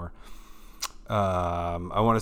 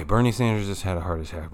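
quick, louder run at the headline; rehearsed punchy read; 2 semitones lower, 4 dB louder, faster than usual. Shown as a demonstration. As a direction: rattle it off fast and punchy. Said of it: "Okay, okay".

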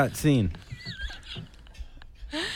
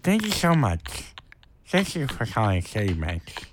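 slow and deliberate; 5 semitones lower, slower than usual. Pretend. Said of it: "No, watch, I can do it".

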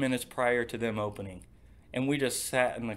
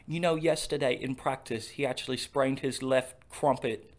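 a hint of a mock British announcer; lightly done British commentator parody; bad British accent. Mocking the soccer announcer in a faint British accent. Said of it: "terrible British accents".

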